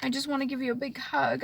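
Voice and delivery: reliving a tearful whisper to her father; whispered thanks. Retold or imitated. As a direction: breathe the thank-yous as a private prayer. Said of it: "That's all I kept saying to myself".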